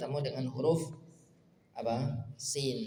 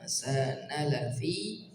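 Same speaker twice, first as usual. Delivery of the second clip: slow recitation; much slower than usual. Shown as a demonstration.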